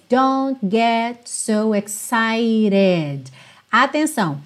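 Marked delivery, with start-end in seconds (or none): 0.1-3.2 slow DON'T GET with barely heard Ts; swallowed Ts. Shown as a demonstration. Teacher models the song line, Ts swallowed. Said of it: "a gente quase não ouve esses T's".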